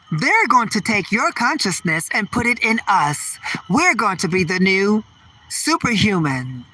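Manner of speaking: robot voice. Pretend. Robots speak of taking consciousness.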